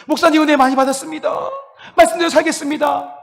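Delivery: high, fast, teary-sounding thanks; gushing gratitude. Shown as a demonstration. Congregant leaving, thanking the pastor, high and tearful. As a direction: thank the pastor as if deeply moved. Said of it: "감탄하셔야 돼요".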